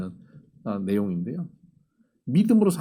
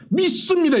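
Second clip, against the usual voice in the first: a high, loud, overblown shout of "믿습니다"; exaggerated loud declaration; 6 dB louder than usual. Shown as a demonstration. Preacher showing the over-the-top way to confess faith, loud shout. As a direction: belt out "믿습니다" like a rally cry, much higher and louder. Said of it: "이것까지 안 가도 돼요".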